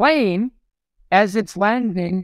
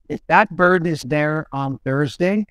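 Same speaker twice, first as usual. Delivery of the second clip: a hint of a dead serious coach, slowed down; lightly voiced coach laying down the law. Coach warning the goalie about the mascot, slow and serious. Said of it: "this is what Billy Smith".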